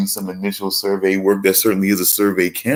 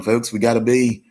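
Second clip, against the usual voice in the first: high, excited Australian wildlife-host voice, mock Australian accent; hushed Australian nature-show host stalking his prey; crocodile hunter impression; 6 semitones higher than usual. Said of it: "I gotta do my crocodile hunter".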